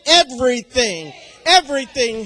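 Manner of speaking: forceful answer. Real, not acted. Answers own question with force.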